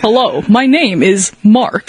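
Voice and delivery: slow, mock American introduction; drawn-out American accent with a hard R in Mark. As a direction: introduce yourself in deliberate American. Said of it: "your accent is so fucking American".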